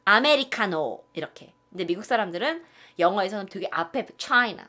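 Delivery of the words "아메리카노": "아메리카노" with the last syllable loud, slow; end stress. Retold or imitated. Teacher mimicking the Korean stress in "아메리카노". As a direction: stretch and push the final "노". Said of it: "우리는 이렇게 말한대요".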